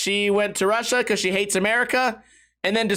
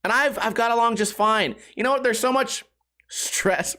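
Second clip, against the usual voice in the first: ordinary delivery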